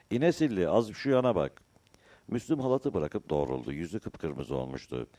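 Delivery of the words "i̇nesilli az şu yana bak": high, loud hail; shouting. A narrator's reading. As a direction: call out to a man across the wind. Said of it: "Müslüm bağırdı". (yüksek sesle seslenerek)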